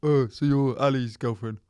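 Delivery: light put-on voice, imitating someone; lightly mocking character voice; Luca. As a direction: do a mild secondhand impression. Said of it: "This is Luca's impression of you".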